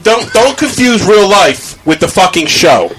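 slow, pointed real anger; lecturing the cohost mid-fight, angry. Real, not acted. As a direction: lay it down slowly and hard. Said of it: "don't raise your fucking voice".

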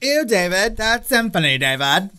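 hammed-up valley girl disgust. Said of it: "like, Valley, Valley Girl".

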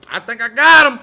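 high, loud triumphant shout; thrilled hunters think they hit him; mock excited. Men excited after shot.

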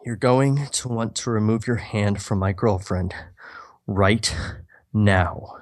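Norman repeating his warning, lightly menacing; stone cold threat. Acted. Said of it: "Do it again".

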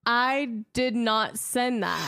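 slow, laughing denial; baffled and laughing at a gift she never sent; laughing disbelief. Retold or imitated. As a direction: let the laugh leak through each word. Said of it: "I'm looking at it like".

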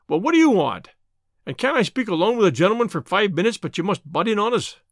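put-upon boss, annoyed at interruption; irritated rebuke. Acted. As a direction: scold the intruder with a touch of temper. Boss rebukes intruding bartender.

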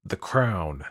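terse angry correction; a touch of anger. A narrator's reading. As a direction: say it with controlled anger. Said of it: "I said angrily".

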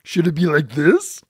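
lightly put-on puppet voice; puppet voice audition. Asking a puppeteer about voices, light puppet voice. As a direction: try out a puppet voice, questioning. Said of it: "what should our voices be for these puppets".

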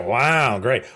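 dry, unimpressed wow; sarcastic wow. Retold or imitated. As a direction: say it like you don't mean it. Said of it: "you don't want the sarcastic wow".

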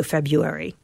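February as FEB-yoo-wery, slight W after the U; February as "Feb-you-wary"; slight glide after U. Shown as a demonstration. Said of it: "add a slight W sound".

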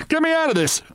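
high-pitched panicked bawl; bawled cry. A narrator's reading. Narrator trapped under the bed, high bawled plea. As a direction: bawl it high, pitched far above normal. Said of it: "I bawled".

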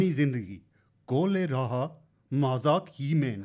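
poetic Asian accent. Shown as a demonstration. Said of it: "like a poet".

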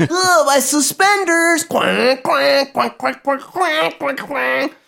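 high goofy clown voice, quacking; silly clown. Pretend. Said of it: "Fucking garbage clown".

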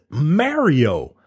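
Mario drawn out as "Mare-io"; imitating New York pronunciation. Quoting a guy from New York, imitated "Mare-io" pronunciation. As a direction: mimic a New Yorker saying "Mare-io" for Mario. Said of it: "that's what he says".

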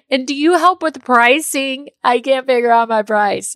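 a lightly voiced anxious client asking for help; worried client. Client on a call asking for pricing help, a hint of worry. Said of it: "they're like".

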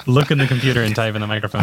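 laughing through the words; repeating it while cracking up. Real, not acted. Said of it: "Put it in front of".

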